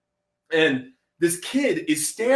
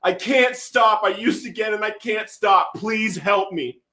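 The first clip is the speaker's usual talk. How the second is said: desperate plea; 6 semitones higher than usual. Retold or imitated. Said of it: "I was like".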